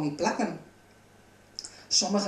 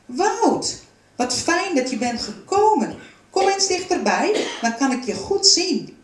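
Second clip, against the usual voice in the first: loud, raised, welcoming call; strong, hearty voice; 9 semitones higher, 5 dB louder than usual. A narrator's reading. The woodcarver welcomes Wout and beckons him closer, loud and strong. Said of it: "De stem klonk diep en sterk".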